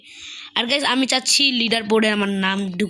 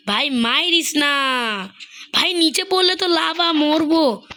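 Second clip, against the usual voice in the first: high, slow panicked begging; pleading in real panic; 5 semitones higher, slower than usual. Real, not acted. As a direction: beg not to be pushed into lava. Panicking over lava fall.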